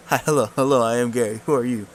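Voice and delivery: eager goblin hello. Acted. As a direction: greet them like a friendly goblin. Goblin Gary voiced by GM.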